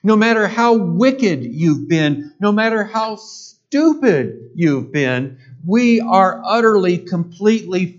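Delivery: fervent, rising sermon delivery; preaching at full force. Acted. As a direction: preach it out with building fire.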